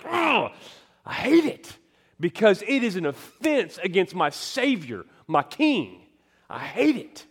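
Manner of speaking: high, loud outburst of disgust; angry at sin. Acted. Preacher acting out hatred of his own sin, loud angry outburst. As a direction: cry out in fierce indignation. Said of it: "angry about the sin in the world".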